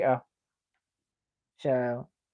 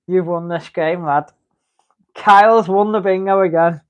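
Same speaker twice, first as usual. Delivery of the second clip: excited; 3 semitones higher, 8 dB louder than usual. Real, not acted. Streamer reacts to a bingo win.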